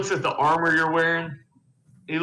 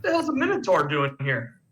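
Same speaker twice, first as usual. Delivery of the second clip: a higher-pitched startled whoa; startled monk; 6 semitones higher than usual. Acted. Monk startled to see the Minotaur walk in. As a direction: act stunned at the sight of a Minotaur. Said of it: "and he's going".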